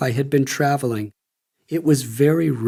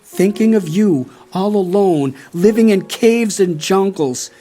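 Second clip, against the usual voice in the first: mildly sorrowful, raised higher and louder; grieving description; 4 semitones higher, 4 dB louder than usual. Retold or imitated. Brother describing their grieving father, mild sorrow. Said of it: "he described my father's condition".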